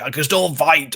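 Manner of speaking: insistent retold plea; desperate. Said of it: "desperately like".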